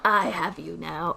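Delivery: put-on slow old man read. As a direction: draw it out like a sinister old man. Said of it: "Why am I doing the old man voice?".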